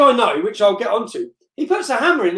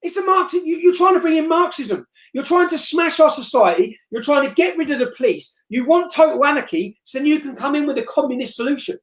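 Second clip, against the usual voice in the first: raised, heated retelling of a rant; retold angry rant; 4 semitones higher than usual. The speaker replaying his angry rant at the Marxist PA. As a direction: hammer the points like he did in the argument. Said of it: "in my angry rant".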